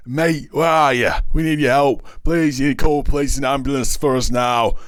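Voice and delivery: high, urgent order. A narrator's reading. Injured policeman to his missing mate, urgent high-pitched order. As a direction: call out high, ordering help. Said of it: "the policeman ordered".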